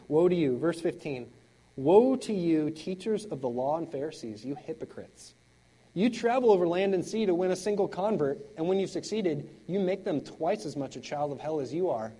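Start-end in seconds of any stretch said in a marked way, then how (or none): 0.1-0.6 mild loud woe. Acted. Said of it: "he's saying". 1.8-12.1 denouncing woe. Acted. Jesus denouncing Pharisees.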